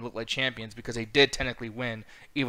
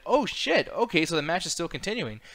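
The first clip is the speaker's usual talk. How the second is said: mock surprise; 4 semitones higher than usual. Retold surprise, match continues.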